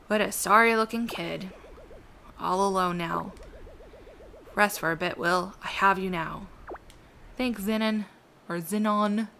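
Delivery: lightly voiced old man; gruff elderly man. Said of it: "That's my old man voice too".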